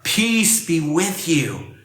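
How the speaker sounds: very slow, drawn-out blessing with a smile; smiling, unhurried reassurance; smiling greeting. Acted. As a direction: stretch each word to send peace across. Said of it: "how can I communicate that spirit".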